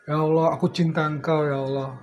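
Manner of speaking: quiet murmured prayer to Allah; soft prayer. Retold or imitated. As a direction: pray it softly, almost to yourself.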